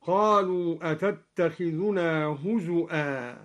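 هزؤا with a clear glottal stop for the waw; huzu'a, the hamza cleanly stopped. Shown as a demonstration. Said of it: "قرأ الدوري بهمز الواو على الأصل". (همز الواو في هزؤا)

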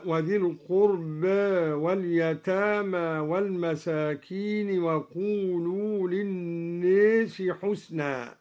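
القربى ending leaned halfway toward e; taqlil on al-qurba. Shown as a demonstration. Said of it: "ألف القربى". (تقليل ألف القربى)

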